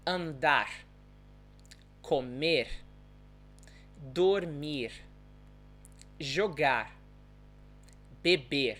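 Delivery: São Paulo R, a very soft vibrating sound ending "Andar, comer, dormir, jogar, beber"; São Paulo accent. Shown as a demonstration. Teacher modelling verbs for learners, São Paulo soft vibrating R. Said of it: "it's a very soft vibrating sound at the end".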